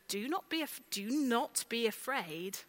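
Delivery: harsh rule from above; stern command. Shown as a demonstration. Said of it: "the way we might listen to these words".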